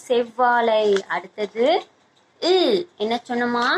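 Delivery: normal talking voice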